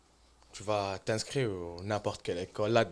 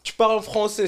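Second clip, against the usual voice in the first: loud, high, laughing retelling; laughing storytelling; 9 semitones higher, 12 dB louder than usual. Real, not acted. Telling friends about the aunt, laughing loudly.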